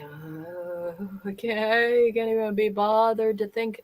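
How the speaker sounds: listless, too drained to bother; imitating someone down. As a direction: start on a very soft, weary "uh", then drag along without energy. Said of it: "she was so down".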